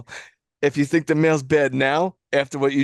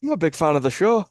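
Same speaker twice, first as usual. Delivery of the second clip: lightly put-on Irish lilt with a rising ending; playful Irish accent. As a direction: try out a mock Irish brogue. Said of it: "read this one in an Irish accent".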